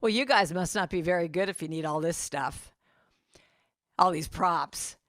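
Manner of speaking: a hint of a bored, sneering stagehand; stage manager brushing off the comedy duo; jaded stage manager. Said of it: "he goes".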